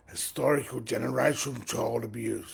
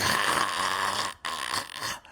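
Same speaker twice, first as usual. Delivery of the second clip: mock laugh; 6 semitones lower than usual. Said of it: "Burst out in hysterics".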